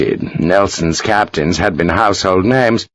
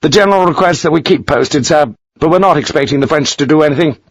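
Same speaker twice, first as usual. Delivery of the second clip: bored; 5 semitones higher, faster than usual. Acted. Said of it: "sounded bored".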